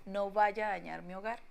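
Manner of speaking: repeats her own plea mockingly; mock pleading. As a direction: echo the old plea with scorn. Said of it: "ese nivel de descaro mío". (repite la súplica con burla)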